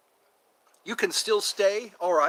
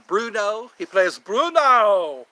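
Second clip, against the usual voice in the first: excited; 4 semitones higher, 7 dB louder, slower than usual. Real, not acted. Excitedly naming Bruno.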